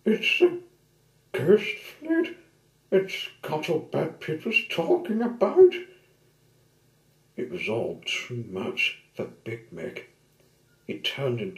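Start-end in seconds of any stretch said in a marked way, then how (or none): 0.0-5.7 high, loud terrified cry; panicked. Acted. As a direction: shout it in panic. Terrified tug sees ghost fleet.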